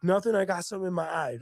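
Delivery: mock-defensive fib about her eye; defensive denial. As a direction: wave it off fast, caught crying. Denying tears, retold.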